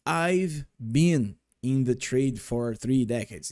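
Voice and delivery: slow, careful "I've been in the trade"; slow model sentence. Shown as a demonstration. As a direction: read the full form slowly, each word clear. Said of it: "a gente utiliza".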